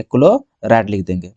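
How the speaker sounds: low, drawn-out dictation of the term; slow dictation. Real, not acted. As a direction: stretch it out as you write. Dictating the term while writing it.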